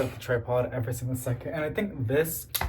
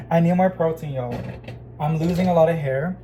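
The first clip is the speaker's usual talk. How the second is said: usual speaking voice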